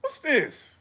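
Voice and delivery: high, loud stunned disbelief; baffled shout at the meowing; incredulous outburst. Retold or imitated. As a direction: react like it's the strangest thing you've heard. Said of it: "I'm like".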